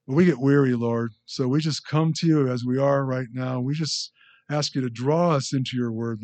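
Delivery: earnest, projected spoken prayer; closing prayer. Real, not acted. Pastor closing the sermon in thanks to the Lord, earnest prayer. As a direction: address the Lord firmly, phrase by phrase.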